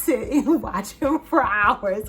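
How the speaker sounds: laughing through the words, pitch climbing; cracking up. Real, not acted. Gushing about a hilarious movie commentator, cracking up. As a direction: talk through real giggles. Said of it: "cracking up".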